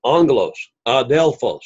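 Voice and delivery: "Angelos, adelphos" with syllables clearly marked; emphasized syllables. Shown as a demonstration. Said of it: "to emphasize the syllables".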